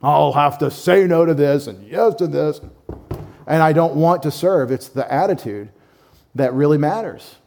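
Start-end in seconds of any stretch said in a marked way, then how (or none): 0.0-4.7 grudging. Retold or imitated. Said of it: "You're not supposed to grudgingly say".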